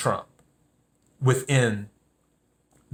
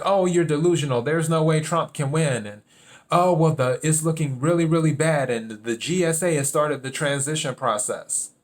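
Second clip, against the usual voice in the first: higher-pitched mock naysayer; imitating naysayers; 3 semitones higher than usual. People telling him Trump can't win, imitated naysayers. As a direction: lightly parrot the doubters in a raised pitch. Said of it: "people are just like".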